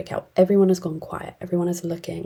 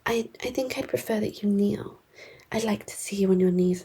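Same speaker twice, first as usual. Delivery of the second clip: smarmy villain; 3 semitones higher, 4 dB quieter than usual. Retold or imitated. Nandor demands she kneel.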